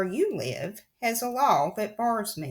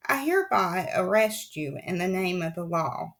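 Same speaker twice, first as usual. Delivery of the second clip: harsh announcement. Acted. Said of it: "announced in a harsh voice".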